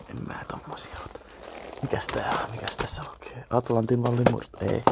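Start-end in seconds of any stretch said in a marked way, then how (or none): 0.1-3.5 hushed whisper while browsing; whispered to himself. Real, not acted. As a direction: whisper so nobody in the shop hears. Browsing tapes in a shop. (kuiskaten itsekseen)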